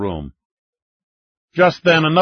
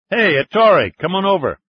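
calling out; 9 semitones higher, 4 dB louder than usual. Acted. Calling Falcone across the bar.

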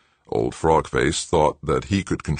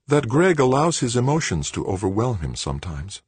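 composed, higher-pitched woman's voice; calm; 7 semitones higher than usual. A narrator's reading. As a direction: explain it smoothly, unruffled, pitched up. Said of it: "Joanna said calmly".

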